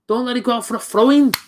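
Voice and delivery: will the ball to stay in; urging on. Real, not acted.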